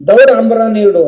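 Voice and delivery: mild, hurried demand in a retold voice; impatient child's demand. Boy in a rush asks his mother for food, mildly impatient.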